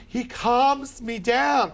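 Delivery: slow, drawn-out mocking of the cat lady; mocking cat owner. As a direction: stretch it out like a needy passenger.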